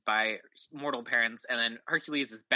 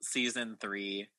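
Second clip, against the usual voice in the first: slow announcer; slower than usual. Acted. Slow grand welcome.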